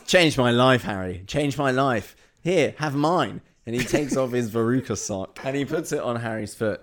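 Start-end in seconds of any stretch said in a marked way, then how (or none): 0.1-3.4 loud, high gushing; enthusiastic. Pretend. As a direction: gush with conviction. Guard enthusing loudly.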